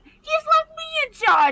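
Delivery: Sticky impression. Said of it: "your impression of him is quite good".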